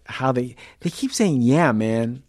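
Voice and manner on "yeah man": put-on British person's failed American accent, a bit loud; botched American accent; bad American accent. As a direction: imitate a Brit attempting American. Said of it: "I like hearing the ones who can't do it".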